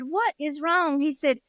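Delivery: high, panicky voice; scared and out of breath. Acted. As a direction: gasp it out in fright. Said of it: "huffing and puffing".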